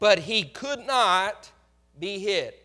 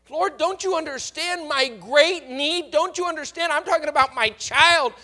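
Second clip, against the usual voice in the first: put-on higher, pressing appeal for her child; anguished plea; 3 semitones higher, 4 dB louder than usual. Mother presses silent Jesus about her possessed child, anguished. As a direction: plead with him, refusing to give up. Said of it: "woman pleads with silent Jesus".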